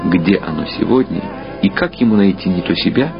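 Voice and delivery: ordinary talk, nothing marked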